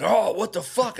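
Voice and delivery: high mocking echo of a drunk; wasted guy. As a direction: mimic the drunk's dopey protest. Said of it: "he's wasted".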